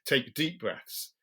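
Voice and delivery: slow, stretched advice; drawn-out instruction. Retold or imitated. Well-meaning helper giving bad advice, stretched slowly. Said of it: "Sometimes they'll say".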